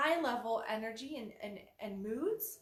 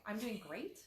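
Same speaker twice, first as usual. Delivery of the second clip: "I'm doing great" said flat and a touch soft, no lift; "great" with no real energy behind it; 3 dB quieter than usual. Shown as a demonstration. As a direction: mumble "great" like it means nothing. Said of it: "the tone of great?".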